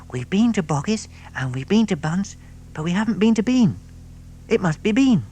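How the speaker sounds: high little fox reasoning; clever cub. Acted. The smallest fox to Badger, high proud voice. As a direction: work it out proudly.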